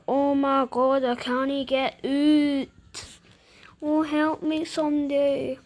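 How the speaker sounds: half-hearted cry of someone stuck; mock plea for help. The bear stuck in the bath, mock plea for help.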